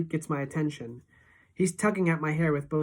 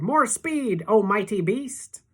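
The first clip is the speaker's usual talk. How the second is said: hammed-up shout; 6 semitones higher, 5 dB louder, slower than usual. A narrator's reading. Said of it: "Freak is shouting".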